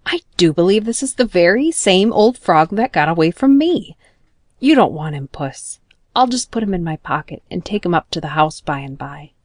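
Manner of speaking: pleased surprise, rising on me; a boy delighted to find the frog; exclaiming. Acted. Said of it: "he exclaimed".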